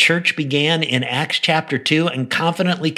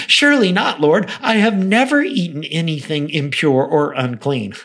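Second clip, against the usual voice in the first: self-righteous pride; 3 semitones higher than usual. Acted. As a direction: object like a self-righteous Peter. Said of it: "hear the self-righteous pride in his voice".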